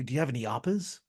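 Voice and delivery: a flat, quick, offhand ask; deadpan ask. Retold or imitated. Imitating the neighbour at the door, asking without shame. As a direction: toss it off like it's nothing. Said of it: "she just plainly, as plain as day".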